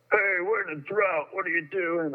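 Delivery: mild mock yell of a stranger; imitating a scold. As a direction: play the nosy guy calling out from the stall. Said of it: "some guy's yelling at me".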